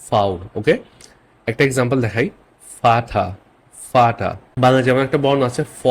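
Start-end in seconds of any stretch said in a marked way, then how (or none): 0.1-0.3 "ফাউ" opening on an F sound; German V as F. Shown as a demonstration. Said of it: "এটা উচ্চারণ basically ফ এর মতো". 2.8-4.3 "ফাটা" opening on an F sound; German-style "ফাটা", V pronounced as F. Shown as a demonstration. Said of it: "ঠিক ফ এর মতো উচ্চারণ হয়".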